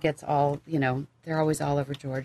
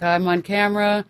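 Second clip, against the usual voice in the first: diva dog; 4 semitones higher, 6 dB louder than usual. Retold or imitated. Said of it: "now he's like".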